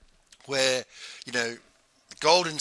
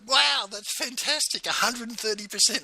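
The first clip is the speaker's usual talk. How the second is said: amazed congratulations; 10 semitones higher than usual. Retold or imitated. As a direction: gush over someone's news, pitched way up. Voicing friend's amazed congratulations.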